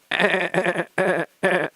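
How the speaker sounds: high squeaky dolphin noise instead of a word; dolphin squeal impression. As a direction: squeak like a dolphin for the team name. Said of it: "That was my Dolphin impression".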